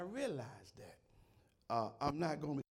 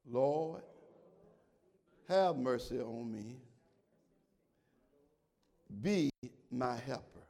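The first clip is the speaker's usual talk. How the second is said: prayer; 3 semitones lower, 4 dB louder, slower than usual. Acted. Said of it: "Let's say that together".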